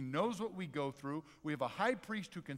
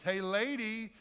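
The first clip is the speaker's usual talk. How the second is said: loud, high parrot call; high-pitched "Hey, lady" shout; parrot heckling; 6 semitones higher, 6 dB louder, slower than usual. Acted. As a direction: holler it like a cheeky parrot. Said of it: "and he says".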